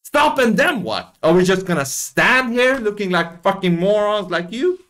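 imitating the driver yelling at protesters; mock exasperated driver. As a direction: yell "stop" like the angry driver. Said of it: "He's like".

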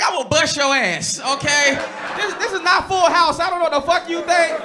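half-joking dad warning; mock angry dad threat. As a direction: bark it like a fed-up father. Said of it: "I'm like".

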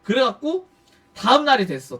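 usual speaking voice

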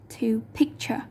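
picture stressed on the first syllable even as a verb; unchanged first-syllable stress. Shown as a demonstration. Teacher showing the verb, picture still stressed on its first syllable. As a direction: keep the weight on PIC in picture. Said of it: "there's not always a chance".

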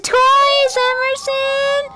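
excited. Real, not acted. Child excited about prize toys.

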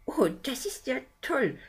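high, whispered sarcasm; water man mocking the news; ironic water spirit. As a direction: breathe the words out mockingly.

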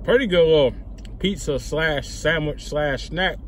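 words around a mouthful; speaking between bites; talking while chewing. Real, not acted. Seen 1: Bit pizza at -5; chewing, food held, speaking through 3.7.

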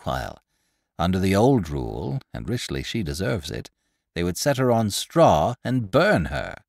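chattering market woman spreading news; gossipy old woman. Acted. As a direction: relish every grisly detail like a village gossip. Pundor explains the execution.

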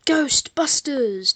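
drawn-out laughing yell of Ghostbusters!; excited shout. Real, not acted. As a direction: belt it out slowly through a laugh. Laughing excited game reaction.

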